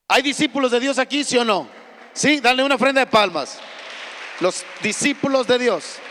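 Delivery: loud, fast call to the congregation; preacher rallying the church to answer; rousing call out. Real, not acted. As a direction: stir the crowd with a loud question.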